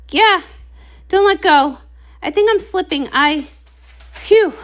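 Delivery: a clumsy unicorn clinging on for dear life; stuck young unicorn. Acted.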